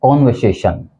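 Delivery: कॉन्वर्सेशन with open O, kon-vuh-say-shun; correct pronunciation. Shown as a demonstration. Teacher modelling the right word, कॉन्वर्सेशन as kon-vuh-say-shun. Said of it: "जिसका उच्चारण है".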